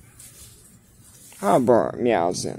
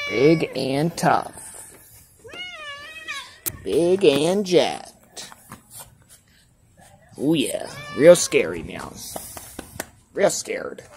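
mock admiring tease; 5 semitones higher, slower than usual. Teasing cat, drawn out.

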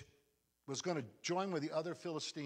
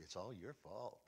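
hushed accusing devil; 6 dB quieter than usual. Retold or imitated. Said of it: "the devil's saying to you".

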